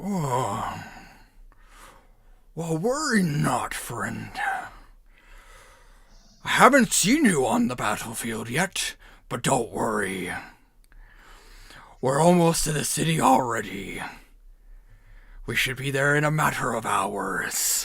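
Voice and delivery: swooping orc voice, teeth pushed forward. Player voicing an orc character reassures a friend, in a teeth-forward orc voice. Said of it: "channel my inner orc".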